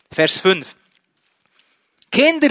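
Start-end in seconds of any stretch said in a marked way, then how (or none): 2.1-2.5 high, loud call across the water. Acted. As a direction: hail them loudly from afar. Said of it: "rief er ihnen zu".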